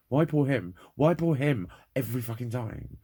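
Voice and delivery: loud, high, furious questions; angry rant. Real, not acted. Venting to viewers about people laughing, real angry outburst. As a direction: demand why every time, raging.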